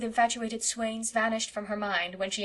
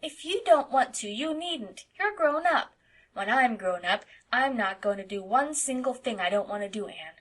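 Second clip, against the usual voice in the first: put-on little boy voice; 3 semitones higher, 4 dB louder than usual. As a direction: chatter like an eight-year-old boy. Narrator voices Davy.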